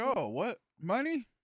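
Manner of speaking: very high-pitched piping squeaky character voice. Voicing Germ popping out of the woodwork: Germ voice. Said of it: "Germ will pop out of the woodwork and be like".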